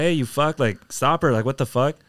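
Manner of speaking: recreate yelling after a thief, held back; retold yelling. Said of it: "and I'm yelling".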